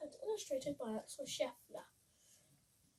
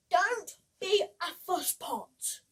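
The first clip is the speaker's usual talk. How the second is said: slow, louder, brushing her off; hint of a smug scarecrow; dismissive; 4 semitones higher, 11 dB louder, slower than usual. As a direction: wave her worries away. Vain scarecrow brushes Betty off.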